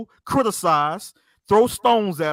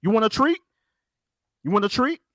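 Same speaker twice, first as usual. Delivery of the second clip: higher, coaxing like talking to a puppy; mock pet talk; 4 semitones higher than usual. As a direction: tease him like a dog waiting for a treat. Treating opponent like a puppy.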